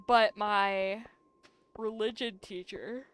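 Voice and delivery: slow words through a yawn. Real, not acted. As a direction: talk through a real yawn. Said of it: "I'm still yawning".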